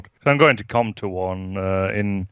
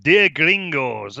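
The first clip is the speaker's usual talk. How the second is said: slow, hammed-up Hispanic accent; mock Hispanic accent, drawn out; 4 semitones higher, much slower than usual. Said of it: "read this in a Hispanic accent".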